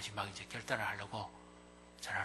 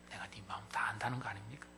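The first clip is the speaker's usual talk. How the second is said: tender whisper. Acted. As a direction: let it fall to a hush. Repeats Jesus' words softly.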